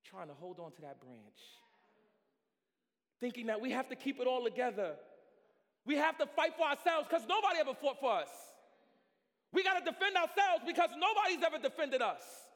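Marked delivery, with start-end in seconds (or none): 3.2-12.4 high, loud building preacher's cry; preaching climax. Acted. Preacher rousing the congregation, building to a shout. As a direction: build the fervour line by line.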